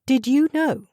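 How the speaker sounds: high, loud and sharp, demanding an answer; sharp challenge. A narrator's reading. Woman confronting the headmaster, sharp and challenging. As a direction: confront him with a pointed question. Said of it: "her tone sharp with challenge".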